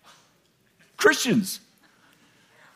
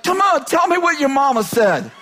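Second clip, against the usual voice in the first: higher, eager mock plea; eager urging; 5 semitones higher than usual. Fan urging TV preacher to go on, eager. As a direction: egg the speaker on, pitched up.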